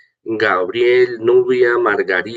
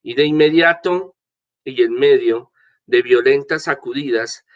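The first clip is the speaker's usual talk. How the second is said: scripture reading; 2 semitones higher than usual. Acted. Priest reads the gospel aloud.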